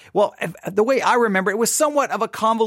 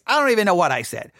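usual speaking voice

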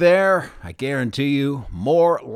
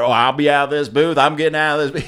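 louder mock panic; retold alarmed protest; 7 dB louder than usual. Imitating colleague fleeing a spider in the booth, loud protest. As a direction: raise the voice as if bailing out.

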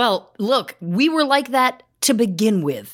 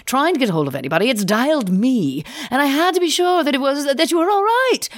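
put-on posh grandmother accent. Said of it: "our grandmother has never sounded so posh".

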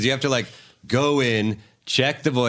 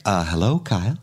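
awkward mom. Retold or imitated. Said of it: "she'd be like".

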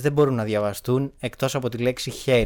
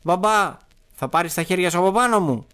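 put-on high-pitched child's desperate plea; acted distress; 7 semitones higher, 4 dB louder than usual. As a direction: plead higher, in lightly acted panic. Child in script begs. (απεγνωσμένα, σαν παιδί)

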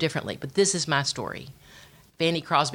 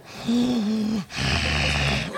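imitating a reluctant husband's drawn-out sigh; mock snoring breath through the nose; snore-like sigh. Wife mimics husband's reluctant sigh while praying, snore-like. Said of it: "like he's snoring on his knees".

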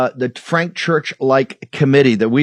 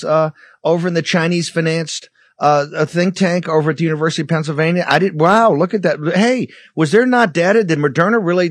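mock surprise; 4 semitones higher than usual. Mocking officials' fake discovery.

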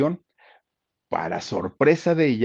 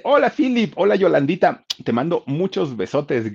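loud, high excited shout-out; saludo efusivo; 8 semitones higher, 7 dB louder than usual. Real, not acted. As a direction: call out a greeting, high and loud. Calls out a listener greeting. (saludo a voces, agudo y efusivo)

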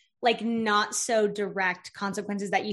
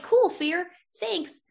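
higher, airy dismissal; breezy brush-off; 6 semitones higher than usual. Acted. Coach dismissing her own fear, breezy brush-off. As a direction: politely wave the fear away.

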